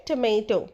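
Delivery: "टोमेटो" as tuh-MAY-toh; correct pronunciation. Shown as a demonstration. Teacher summing up for learners, correct "टोमेटो" as tuh-MAY-toh. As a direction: say "टोमेटो" with weak first syllable and long "may". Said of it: "सही pronunciation है".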